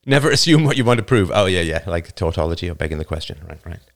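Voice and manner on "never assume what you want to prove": firmer, louder quote of a strict math professor; a hint of a stern math teacher laying down the rule; stern professor's maxim. Quoting his math professor's warning, firm and loud. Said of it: "my math professor".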